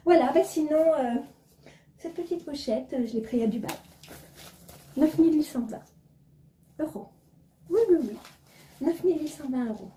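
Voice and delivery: lightly voiced snobbish lady, airy and self-satisfied; posh woman back from Dubai. Vlogger mocking a pretentious acquaintance, lightly voiced snob. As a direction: play a vain rich woman just back from Dubai, only a shade off her own voice. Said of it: "le petit théâtre de Sibylle".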